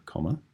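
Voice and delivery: comma said aloud as its own word, set apart from the sentence; spoken punctuation mark. Shown as a demonstration. Teacher to pupils, marking the pause: comma spoken aloud. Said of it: "I said the word comma deliberately".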